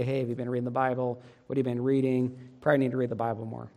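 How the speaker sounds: put-on a light, easy question to a child, not much different from plain talk; mild friendly parent nudge; gentle checking in. Shown as a demonstration. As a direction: ask kindly and casually, no pressure. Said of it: "But if we say it like this".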